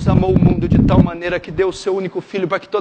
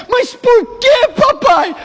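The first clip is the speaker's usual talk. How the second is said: son's question; 13 semitones higher, 4 dB louder, much slower than usual. Acted. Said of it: "prodigal son asks father".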